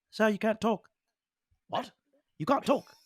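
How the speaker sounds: outraged that the prisoner may speak; indignant leader. Acted. Lion-skull leader outraged over the talking stick. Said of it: "the one with the lion skull says".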